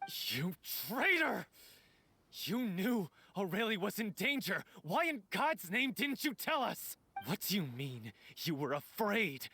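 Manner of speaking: outraged, with the pitch jumping on the sharpest reproaches; worked-up angry accusation. Acted. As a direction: lash out at a traitor in disbelief. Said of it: "try not to get too worked up".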